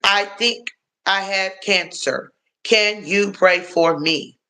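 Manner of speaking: slow, lightly pitiful imitation of the ex; a touch of whining ex-husband asking for prayer; slow mock plea. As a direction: drag it out like a sorry plea. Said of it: "That was his words, I promise you".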